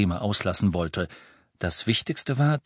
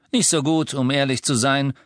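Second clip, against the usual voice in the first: dejected; 4 semitones higher, 3 dB louder than usual. A narrator's reading. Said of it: "der äußerst niedergeschlagen wirkte".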